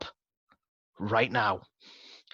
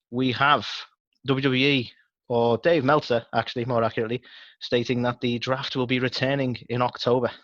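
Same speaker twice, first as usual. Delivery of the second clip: news anchor. Acted. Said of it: "let's do the news anchor thing".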